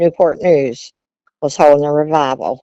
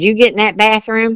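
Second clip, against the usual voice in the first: stern father; 6 semitones higher, 3 dB louder than usual. Retold or imitated. Father punishing daughter.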